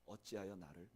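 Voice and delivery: anguished cry. Retold or imitated. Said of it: "하늘을 향해서 이렇게 부르짖습니다".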